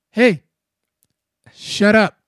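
loud, abrupt call; retold shushing. Kids glued to Dragon Ball, loud retold shushing. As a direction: call out sharply to silence a friend.

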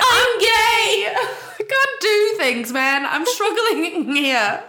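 hammed-up helpless excuse; mock pained excuse.

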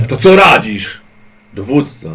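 slow, loud, deliberate question; mock soldier asking commander. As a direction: drag it out to the commander.

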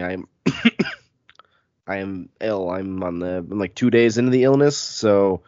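stuffy nose from a cold; congested sick voice. Real, not acted. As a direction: talk through real congestion. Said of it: "I might sound weird if anyone's listening".

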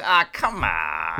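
low, very drawn-out groan of protest; imitated pleading. Co-host echoes the fan's plea.

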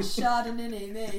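mock northern English accent; Chardonnay in a northern accent. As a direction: put on a broad northern accent. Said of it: "I'm doing a northern accent".

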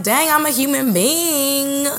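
exasperated quote. Retold or imitated. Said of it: "and I'd be like".

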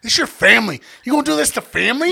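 high-pitched, rushed mock pleading; guilt-tripping. Friend on the phone pushing for alcohol, mock guilt-tripping. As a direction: lean on the listener with a rising guilt trip. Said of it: "Guilt tripping super hard".

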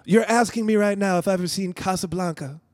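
incredulous, lightly voiced Seagal; mock disbelief; playing Seagal. Seagal disbelieving Keenen's question, mock incredulous. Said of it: "I'll be Steven Seagal".

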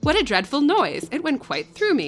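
shocked servant reacting to a scream; exclaiming maid. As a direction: recoil from the noise. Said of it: "exclaimed Abbott".

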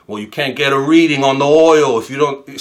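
put-on Brooklyn accent; thick Brooklyn accent. Father-in-law explaining the oil reading, imitated Brooklyn accent. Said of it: "in his thick Brooklyn accent".

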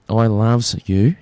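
lightly put-on, drawn-out Bogan accent; silly Bogan accent. Radio host to his love bug, silly Bogan accent. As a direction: ham up a little slow Bogan Australian. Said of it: "that's my silly Bogan accent".

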